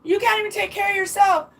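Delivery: high, indignant acted refusal; retold protective protest. Refusing to let ex take the dog, acted protest. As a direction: put your foot down in retelling. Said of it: "I was started turning into".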